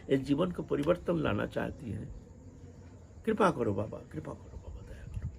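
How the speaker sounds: hushed, halting plea fading almost to nothing; humble repentance. Retold or imitated. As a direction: imitate a penitent softly surrendering at the saint's feet. Repentant woman begs saint for grace.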